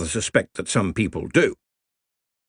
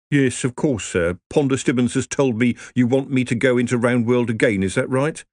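whiny wizard; 3 semitones higher than usual. Acted. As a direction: complain like a put-upon clerk. Rincewind answers hurriedly.

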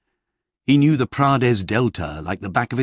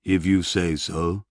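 slow barbarian shrug; 2 semitones lower than usual. A narrator's reading. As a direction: let it out slowly, unconvinced. Barbarian hero voiced by narrator.

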